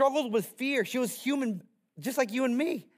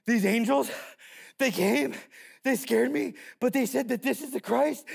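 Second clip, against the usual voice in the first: raised, slightly breathless short bursts; excited testimony; 3 semitones higher than usual. Acted. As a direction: play a shepherd breaking big news. Shepherd excitedly reporting to the room.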